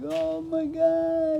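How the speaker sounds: slow, high, loud mock wail; imitated wailing. Whole school mourning the singer, a slow high mock wail. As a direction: drag it out like a tearful schoolmate. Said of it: "everyone in the school was just crying".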